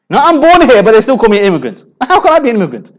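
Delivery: high, quick mock-indignant objection; indignant protest. British-born Muslim answering those who call them immigrant, indignant protest. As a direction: protest in disbelief, imitating someone wrongly labelled.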